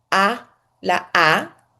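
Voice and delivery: a drawn-out open "a", slow. Shown as a demonstration. Teacher demonstrating the open alef, slow and drawn out. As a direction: stretch "la a" wide open. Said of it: "poder pronunciar la alef".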